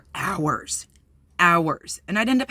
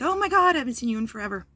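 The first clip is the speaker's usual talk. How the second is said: excited squeal; 6 semitones higher, faster than usual. Retold or imitated. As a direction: squeal "Oh my God" up high like a thrilled old friend. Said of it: "and she's like".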